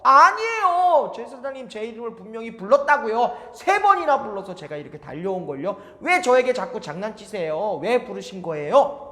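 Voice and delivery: put-on eager boy rushing to the priest; young Samuel. 사무엘 항의. (높고 큰 어린 사무엘 목소리)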